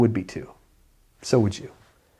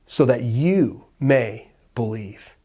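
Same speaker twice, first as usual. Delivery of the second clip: slow emphasis; 2 semitones lower, slower than usual. Acted. Repeats key phrase slowly.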